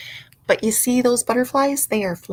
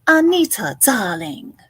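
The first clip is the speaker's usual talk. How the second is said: Disney villain quote. Retold or imitated. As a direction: purr it like a theatrical villainess. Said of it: "that's from a Disney movie".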